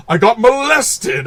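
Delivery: high, loud, drawn-out "molested"; emphasis on molested. Retold or imitated. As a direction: imitate the hammy delivery, punching "molested" slowly. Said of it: "Like, the emphasis on".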